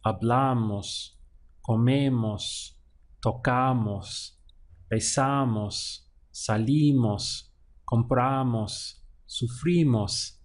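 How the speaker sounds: slow list, each stressed before mos; hablamos, comemos, tocamos read slowly, leaning on the syllable before mos; slow drill that makes the mos pattern heard. Shown as a demonstration. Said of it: "you'll hear that we have a very distinctive, very common sound".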